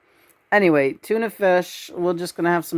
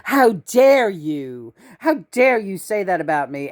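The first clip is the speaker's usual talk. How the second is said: mock indignation; 2 semitones higher than usual. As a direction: act out affronted pride, lightly. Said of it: "indignation is like".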